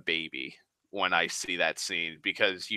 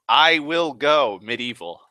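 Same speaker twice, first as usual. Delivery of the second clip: louder, punchy declaration; emphatic threat; 5 dB louder than usual. Shown as a demonstration. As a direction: announce it like a boast you mean. Repeats line two ways.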